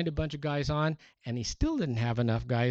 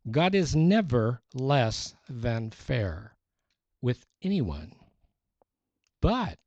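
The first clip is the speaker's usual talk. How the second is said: slow reading for note-taking, each phrase set apart; slow dictation. Shown as a demonstration. Preacher reads a quote slowly for the congregation to copy. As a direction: read it slowly so they can write. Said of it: "I'll read it slow so you can write it down".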